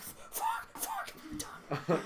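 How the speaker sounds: high strained panicked squeak. Retold or imitated. Panic as edible kicks in.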